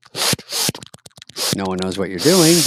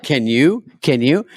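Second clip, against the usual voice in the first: imitating the clip; slower than usual. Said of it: "But I like".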